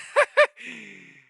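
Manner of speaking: high, loud burst of laughter; shrill laugh. Real, not acted. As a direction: cackle in disbelief. Laughs at losing trade.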